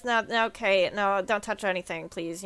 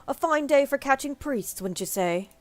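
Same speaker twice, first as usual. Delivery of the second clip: lightly voiced, formal British-ish ally; hint of a sly knight; Thancred voice. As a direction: read it like a noble schemer. Voicing Thancred again.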